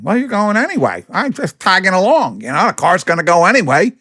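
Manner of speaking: high, breezy put-on voice; mock freeloader. Imitating a freeloader who wants a free ride, high breezy voice. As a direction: shrug it off as a cheeky tag-along.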